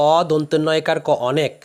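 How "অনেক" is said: অনেক with a plain open অ, onek; অনেক, খোলা অ দিয়ে. Shown as a demonstration. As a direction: start অনেক on a clear open অ, not ও. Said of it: "অ এর উচ্চারণই করি".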